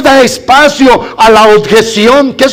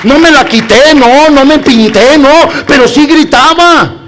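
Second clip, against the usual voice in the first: excited retelling; 3 semitones higher, 4 dB louder than usual. Retold or imitated. Excited retelling of cheering at game.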